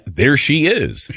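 slow, drawn-out creepy gawk, rising then dropping; creepy admiring. Retold or imitated. Host replaying his sighting of a crush, creepily drawn out. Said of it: "that sounds creepy to say that".

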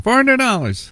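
put-on cheerful farm girl naming the price; chirpy farm girl. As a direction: sing the price back sweetly. Farmer's daughter repeats price.

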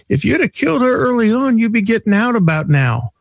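high Italian car dealer voice delivering a punchline; Italian accent. Retold or imitated. Dealer jokes to the anniversary caller, in an Italian accent. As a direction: play the dealer's dark joke in his thick Italian accent. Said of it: "very heavy Italian accent".

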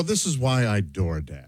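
pointed retort. Pretend. Diner to clumsy waitress, dryly pointed. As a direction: drag it out, low and dry. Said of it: "look at her and go".

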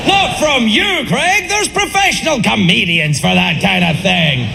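drawn-out mock Southern pleading; imagined Southern audience. Southern crowd begging Craig not to tell a joke, mock Southern accent. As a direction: plead in a hammed-up Southern accent, stretching words. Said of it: "I know what you're thinking".

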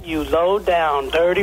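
reading the note. Retold or imitated. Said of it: "Read that back to me".

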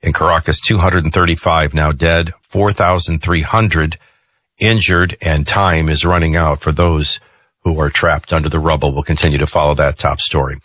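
measured radio headline read; news read. Real, not acted. Host briefing listeners on quake death toll, news read.

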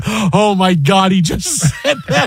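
gasping oh my God through a laugh; stunned, half-laughing studio reaction; can't believe he said it, laughing; laughing disbelief. Retold or imitated. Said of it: "we're all in the studio going".

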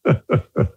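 short, breathy chuckle; real chuckle. Real, not acted. Guest amused by the host's question, chuckling. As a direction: let out a brief amused laugh. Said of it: "I'm laughing because".

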